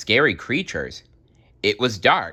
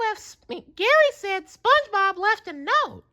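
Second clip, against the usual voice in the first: Patrick voice. A narrator's reading. Patrick reads Gary's news.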